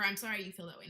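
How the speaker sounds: the wrong way: "I'm" leaned on, dismissive; quoting the fake apology with a dismissive lean on "I'm"; fake apology, stressing sorry. Shown as a demonstration. Vlogger quotes a fake apology to show the wrong version, dismissive.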